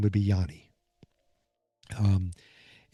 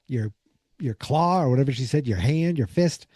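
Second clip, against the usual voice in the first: mocking; 3 semitones higher than usual. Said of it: "she's, like, mocking her".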